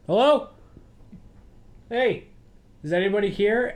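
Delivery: high, loud calling out through empty halls; hollering hello into an empty hotel. Retold or imitated. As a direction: call out to anyone who might hear. Imitating Scatman calling out in hotel.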